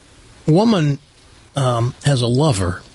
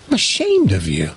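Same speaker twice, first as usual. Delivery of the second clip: stern dad; 7 semitones lower than usual. Acted. Dad scolding his son in the joke.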